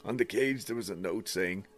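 lightly voiced woman's last message; man doing a woman's voice. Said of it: "Oh, no, this is still her".

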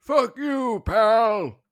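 put-on old-timey voice. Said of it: "answer in an old-timey voice".

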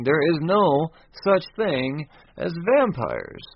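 slow, emphatic mock declaration; retold exclamation. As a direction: spell it out slowly, as if exclaiming. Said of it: "is once exclaiming".

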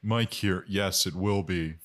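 lightly voiced guest character. Mike voice.

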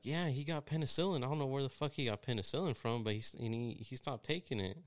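mock a nurse badmouthing a patient; talking shit. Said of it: "I hear her talking shit".

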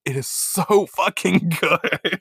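slow, drawn-out gush with a laugh. Retold or imitated. Fan gushing to her co-host, slow and delighted. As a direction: rave about the show, stretching it out. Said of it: "And I'm like".

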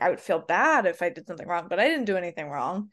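quick, run-on self-justifying mimicry; imitating someone lightly spiralling; mildly spinning out. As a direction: rattle it off, trying to convince yourself. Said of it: "Kind of, like, spinning out".

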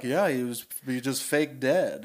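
a hint of a low, measured articulate monster; elegant monster voice. Monster explaining what happened, lightly voiced measured monster. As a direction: speak clearly like a refined monster. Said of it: "what's his voice like".

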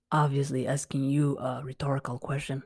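a confiding whisper; whispered aside. Real, not acted. Teacher whispering an aside to viewers.

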